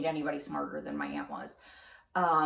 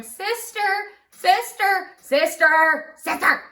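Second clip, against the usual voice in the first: repeated loud, high calls, getting more urgent; calling out; 12 semitones higher, 10 dB louder, much slower than usual. Retold or imitated. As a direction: keep calling to get her to turn around. Students calling teacher with back turned.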